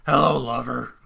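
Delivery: smoky, breathy seductive purr; breathy vintage purr. Retold or imitated. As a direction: purr it like an old film vamp. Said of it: "Smoky breath".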